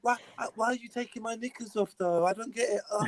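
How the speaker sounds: mocking drunk voice.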